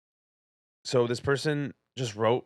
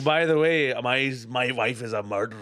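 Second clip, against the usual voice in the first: put-on Indian accent; 2 semitones lower than usual. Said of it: "I'm just doing an Indian accent".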